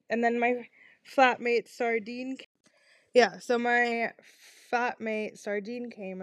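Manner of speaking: stammering, restarting words; stuttering. Real, not acted. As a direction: trip over the words, restart. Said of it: "I'm kinda stuttering".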